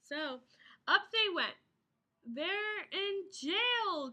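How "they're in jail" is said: very slow alarmed cry; mock cry. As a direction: cry out the bad news. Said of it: "cried Dots".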